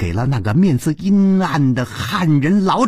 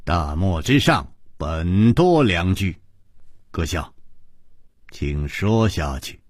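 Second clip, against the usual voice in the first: low, slow, gentle smile; smiling composure; 9 semitones lower than usual. A narrator's reading. Chu Liuxiang urges the storyteller to continue, smiling composure. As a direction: calmly invite him on, low and unhurried. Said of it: "微笑着说".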